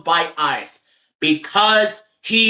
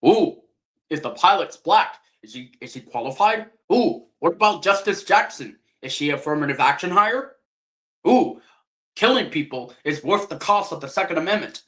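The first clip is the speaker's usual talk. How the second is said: mocking Charlie Kirk. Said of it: "what Charlie Kirk said in his podcast".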